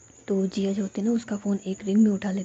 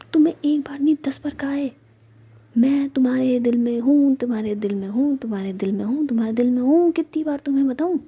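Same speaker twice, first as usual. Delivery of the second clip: exasperated repeated scolding, bursts higher and louder; angry nagging; 4 semitones higher, 4 dB louder than usual. Acted. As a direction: fire it off at her, fed up. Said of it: "इतनी romantic बात भी तुम इतने गुस्से में कह रही हो". (झुंझलाकर, गुस्से में डांटते हुए)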